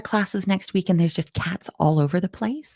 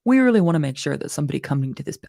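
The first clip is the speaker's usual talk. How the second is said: brisk, fast corporate manager delivery; product manager voice; 5 semitones lower, 4 dB louder, faster than usual. Acted. Teacher slips into her product manager voice, fast and businesslike. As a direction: rattle it off like a product manager in a meeting. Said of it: "let me do my product manager voice".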